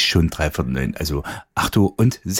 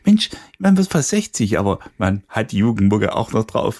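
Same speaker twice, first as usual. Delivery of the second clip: impressed exclamation; 5 semitones higher than usual. Acted. Acted quote of admiring people.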